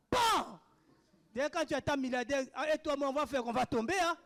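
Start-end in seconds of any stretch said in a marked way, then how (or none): 0.1-0.6 sudden high-pitched "bam"; imitated falling thud. Preacher imitating a sister falling at prophecy, imitated thud. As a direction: punch out the sound of a body dropping. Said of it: "La sœur est tombée comme ça".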